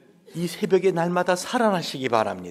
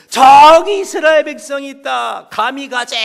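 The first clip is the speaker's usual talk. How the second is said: bold quail cry; 11 semitones higher, 16 dB louder than usual. Acted. A quail spotting the Israelites and diving down. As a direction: charge in like a kamikaze bird.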